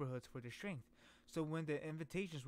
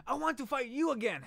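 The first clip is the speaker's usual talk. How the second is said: shouting; 7 semitones higher, 7 dB louder than usual. Acted. Reading character's shout.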